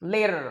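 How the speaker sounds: Later as "layder"; flap t. Shown as a demonstration. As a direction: tap the T in Later softly. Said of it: "L A T E R".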